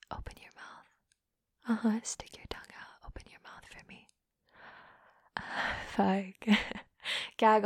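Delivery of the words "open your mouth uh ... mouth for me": commanding whisper. Acted. Ordering her partner in a commanding whisper.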